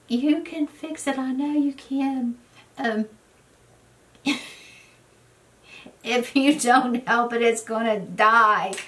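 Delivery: high, half-laughing tearful begging; mock crying plea. Friend tearfully begging her to save the goat, mock sobbing plea. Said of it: "she started crying".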